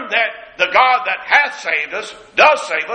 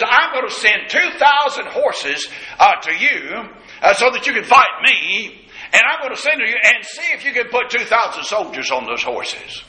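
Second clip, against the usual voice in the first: a higher, slowed mock boast opening with a shout; 3 semitones higher than usual. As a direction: taunt them like a scornful general, then ease off. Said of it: "He's mocking them".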